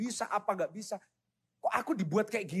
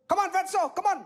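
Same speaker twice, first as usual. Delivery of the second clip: higher, louder mocking jeer; bully taunt; 13 semitones higher, 4 dB louder than usual. Bully taunting Michael as he chases his bag, loud jeer. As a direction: goad him like a playground bully.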